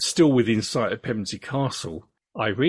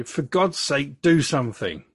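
mildly acted exclamation; a touch of urgency, slightly raised; urgent exclamation; 4 semitones higher than usual. Attacker urging on his accomplice, mildly exclaimed. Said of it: "Field then exclaimed to Gray".

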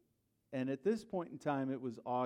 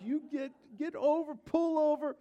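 high, loud shouted orders; shouting at driver; 13 semitones higher, 6 dB louder than usual. Retold or imitated. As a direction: bark at her to pull over. Chasing driver, honking horn.

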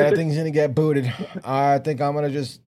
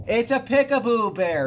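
imitating Joe; 10 semitones higher than usual. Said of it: "you hear Joe from the background".

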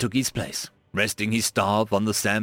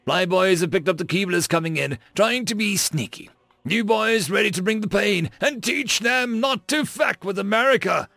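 gruff space marine; 9 semitones higher than usual. A narrator's reading. Officer rallying troops before battle.

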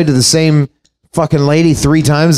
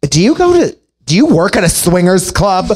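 mother's shock; 3 semitones higher than usual. Retold or imitated. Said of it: "she's like".

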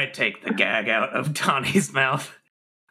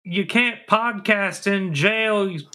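shocked; 7 semitones higher than usual. Acted. Shocked at kidnapped sheriff.

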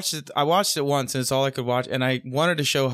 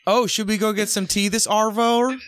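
mock Australian accent; 6 semitones higher than usual. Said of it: "they're like".

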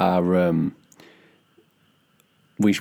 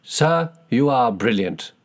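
slow Cockney "Sir, you are brilliant"; hammed-up Cockney praise; Cockney accent; 3 semitones higher, slower than usual. Shown as a demonstration. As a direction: lean into a chirpy Cockney "brilliant". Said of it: "the Cockney accent".

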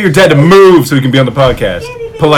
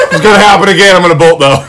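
put-on little kid voice; 3 semitones higher, faster than usual. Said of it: "Donovan would talk in, like, a little kid voice".

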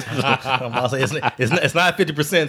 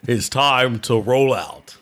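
slower, lower robot commander call; Optimus Prime impression; 3 semitones lower, slower than usual. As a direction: stretch it out like a heroic robot leader. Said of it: "another J-Rock impression".

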